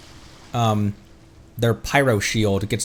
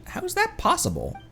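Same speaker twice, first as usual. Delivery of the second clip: much higher, soft puppy thought; puppy's voice; 5 dB quieter than usual. Retold or imitated. Narrating what the wagging puppy seems to say, high. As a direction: voice the puppy's surprise. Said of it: "as if saying".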